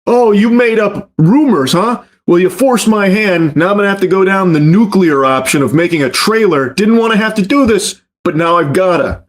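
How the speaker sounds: hammed-up imitation of a streamer; mocking Nina's voice. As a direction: sneer her fake reluctance. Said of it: "that's her response to it".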